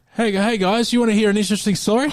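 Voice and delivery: put-on loose, slightly slurring voice. Acting out a night out a few beers in, tipsy, slightly slurred. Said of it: "Then a few beers in".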